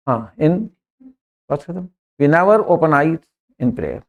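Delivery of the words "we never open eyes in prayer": very slow, word by word; teacher dictating the English sentence; slow dictation. Shown as a demonstration. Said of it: "केवल सुनना है".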